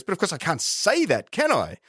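high-pitched, confiding impersonation; imitated high-voiced rhetorical aside; Christopher Pyne. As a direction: mimic a politician's accent, pitched well up. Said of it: "hear him saying it in his accent".

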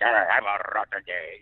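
a lightly growled, grumpy Italian villain; Wario voice. Retold or imitated. Explaining Wario's origin, a light grumbling sneer. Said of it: "there's Wario to do".

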